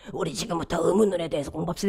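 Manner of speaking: hoarse, rough-sounding voice. Showing how speech sounds with vocal cord nodules: hoarse vocal-nodule voice. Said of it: "성대 결절 걸리면 ... 이렇게 되잖아요".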